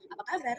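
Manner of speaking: "Apa kabar" in an even, unraised tune; understated, neutral-pitched "Apa kabar"; varied intonation. Shown as a demonstration. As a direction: say "Apa kabar" level and casual, without a lift. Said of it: "mengatakan apa kabar dengan berbagai intonasi".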